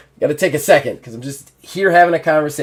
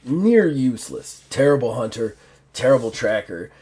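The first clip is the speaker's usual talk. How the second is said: lightly voiced gruff orc, pitched down; 5 semitones lower than usual. Orc reporting on a useless hunter, lightly gruff. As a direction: grumble like a gruff orc sizing someone up. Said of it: "You hear the gruff, uh, orc's voice".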